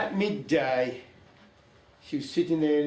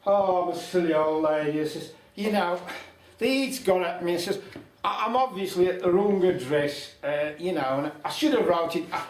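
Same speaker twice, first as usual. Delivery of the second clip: feigned fluster; 3 semitones higher, 5 dB louder than usual. Acted. Old lady faking confusion to the young wife, flustered and raised. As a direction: play the muddled old dear.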